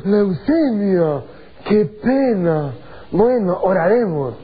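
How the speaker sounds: slow, resigned "Leucemia, qué pena"; doubtful sigh. Retold or imitated. Preacher mimicking his own hopeless reply to a sick boy, slow and resigned. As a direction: drag it out, already giving up. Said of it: "la actitud de mi corazón".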